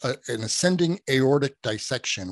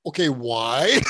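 laughing confusion; 2 semitones higher, 5 dB louder, slower than usual. Retold or imitated. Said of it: "I'm like".

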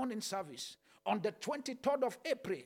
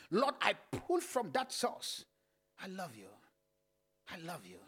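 intimate prayer. Acted.

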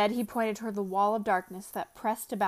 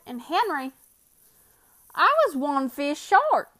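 Bill's voice; 4 semitones higher, 5 dB louder, slower than usual. Acted. Bill explains the missing fish.

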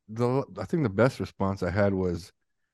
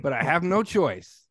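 mock accomplice; 6 semitones higher than usual. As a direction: play a killer's frazzled helper relieved to be reached. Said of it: "And my answer was".

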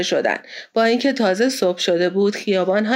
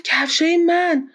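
slow, higher-pitched amazement; astonished; 6 semitones higher, slower than usual. A narrator's reading. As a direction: draw the words out high in astonishment. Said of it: "پاسپارتو با تعجب گفت".

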